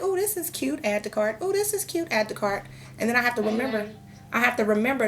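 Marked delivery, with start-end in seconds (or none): 0.0-1.4 much higher, delighted squeal on "Oh, this is cute"; gushing shopper. Retold or imitated. Imitating herself shopping online. 1.4-2.6 even higher, delighted squeal on "Oh, this is cute"; gushing shopper again. Retold or imitated. Imitating herself shopping online.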